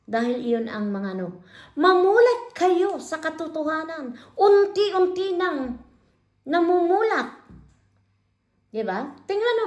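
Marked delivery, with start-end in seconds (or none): 1.8-7.3 pleading, near tears. Real, not acted. Emotional plea to the viewers.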